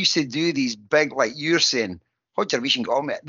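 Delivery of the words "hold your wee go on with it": "Hold your wee go on with it" with no gaps between words; words run together. Retold or imitated. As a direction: say "Hold your wee go on with it" as one joined-up word. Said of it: "There was no spaces".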